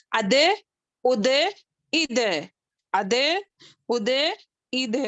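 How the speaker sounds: اد repeated with a bouncing d release; practice drill. Shown as a demonstration. Teacher leading the class in practice of dal. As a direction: drill the echoing d. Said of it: "یہ اس کی مشق کرا".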